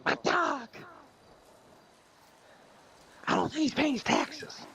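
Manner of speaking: very high, slow, mournful moth; sad moth voice. Acted. Moth complaining to the foot doctor, very high and mournful. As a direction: wail like a heartbroken moth. Moth character in told joke.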